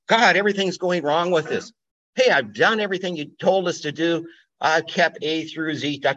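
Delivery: mock the people's indignant whining; whiny complaint. Israelites complaining to God.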